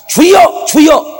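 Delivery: two high, loud mock prayer cries; imitated prayer shout. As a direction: mimic repeated calling on the Lord. Mimics people crying out "Lord. (주여 외치는 기도 흉내)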